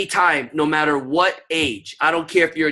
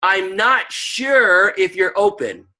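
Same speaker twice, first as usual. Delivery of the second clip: slow soft offer; 3 semitones higher, slower than usual. Shown as a demonstration. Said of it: "when you say".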